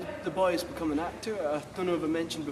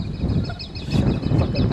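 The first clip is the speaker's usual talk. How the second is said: slow, deliberate, menacing repeat; slow threatening repeat; drawn-out shut up; 5 dB louder, much slower than usual. Real, not acted. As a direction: stretch every word out.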